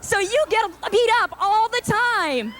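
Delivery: high, chirpy talk show host voice; mock cheerful host to a crying guest; Ricki Lake impression. Ricki Lake to her upset guest, chirpy and high. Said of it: "She's like".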